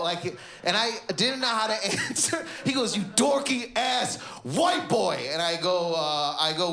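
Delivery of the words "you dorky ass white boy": put-on DORKY, ASS, WHITE BOY drawn out slowly as separate high beats; beat-by-beat delivery. Comic repeating the insult he got, beat by beat. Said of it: "he just did it in so many".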